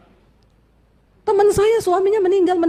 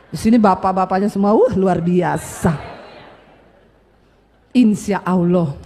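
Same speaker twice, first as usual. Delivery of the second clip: low, slow teasing drawl; tongue-in-cheek praise; 9 semitones lower than usual. Real, not acted. Preacher teasing the husbands in the congregation, tongue-in-cheek praise. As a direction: praise them slowly and low, not quite believing it.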